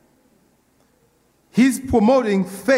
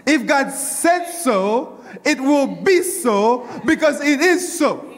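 joyful preaching; 4 semitones higher, slower than usual. Real, not acted. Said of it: "let me say it one more time for myself".

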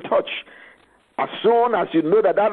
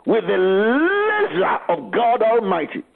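commanding prayer; 3 semitones higher than usual. Acted. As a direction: command the sickness to leave.

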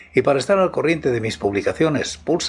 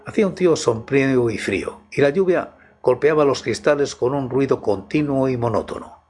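story narration. Acted. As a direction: set a midnight horror mood. Reads a horror story aloud.

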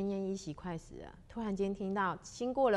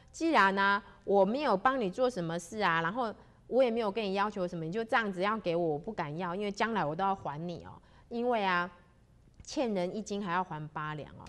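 urgent explaining; 4 dB louder than usual. Acted. 邱大仙急切解释.

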